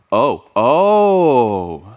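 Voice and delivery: long drawn-out, awestruck "oh"; acting out jaw-dropped amazement; jaw-on-the-floor awe. Preacher shows the crowd's reaction to Jesus, acted awe. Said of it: "This is, uh, jaw on the floor".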